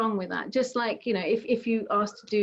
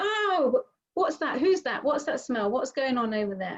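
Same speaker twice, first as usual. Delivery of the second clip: distracted mind; 3 semitones higher than usual. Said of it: "It's gonna go".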